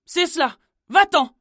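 plus aiguë et bien plus forte, cassante; jette-le dehors; mère qui chasse. Acted. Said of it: "lui répondit sa mère". (mère méprisante qui congédie son fils)

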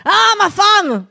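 grand dramatic cry, slow; theatrical. Acted. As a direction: declaim it like a diva. Theatrical address to wife.

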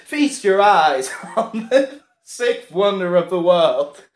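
a touch of circus ringmaster pomp; showman announcement. Acted. Showman introducing the sixth wonder, mild ringmaster voice. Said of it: "the showman comes out and he goes".

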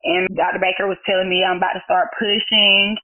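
ordinary talk, nothing marked

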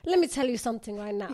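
put-on light Somali mum accent, quickening on the second line; a Somali mum laying down the law in her accent. Friend imitating a Somali mum's accent. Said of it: "She sounds like".

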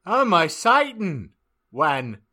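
high, loud excited gasp; gasping surprise. Acted. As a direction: gasp it out, shocked and thrilled. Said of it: "gasped Belody Mary".

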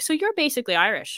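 high-pitched imitation of delighted acceptance; excited, welcoming. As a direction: play them welcoming you in. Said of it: "very excited and welcoming".

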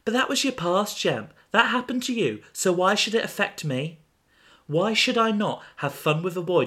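high, cold dismissive friend; Iris's voice. Acted. Voicing Iris in the story.

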